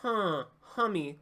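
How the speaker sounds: buzzy nasal. Shown as a demonstration. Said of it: "that buzzy".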